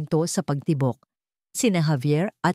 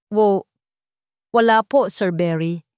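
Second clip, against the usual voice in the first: flustered quick reply; 2 semitones higher, 5 dB louder than usual. Acted. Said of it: "Mabilis niyang sagot".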